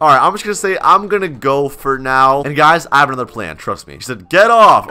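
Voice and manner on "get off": loud acted command; mock angry order. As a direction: read it like a sharp telling-off. Reads out angry chat reply.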